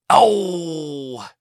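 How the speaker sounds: high, drawn-out wail of dismay; seemingly agonized cry. A narrator's reading. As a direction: cry out as if it pains you. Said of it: "Yagar cried out, seemingly in agony".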